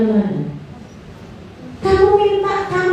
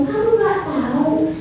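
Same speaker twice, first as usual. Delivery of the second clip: offended scolding; 3 semitones higher than usual. Acted. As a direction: complain you are busy and being wasted. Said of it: "saya malah akan tersinggung".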